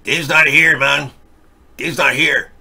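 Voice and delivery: a hint of the Cheech Marin stoner Chicano accent; lazy Cheech Marin drawl on "Dave's not here, man". Host does the Cheech and Chong bit for a chat request, in a light Cheech Marin accent. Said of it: "can you do the Chicha Marin accent".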